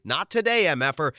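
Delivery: high loud scream; panicked retold scream. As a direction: scream it while fleeing in panic. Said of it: "I screamed".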